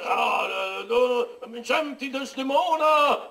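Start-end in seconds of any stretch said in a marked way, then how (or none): 2.1-3.3 theatrical call. Acted. Theatrical Othello calling out.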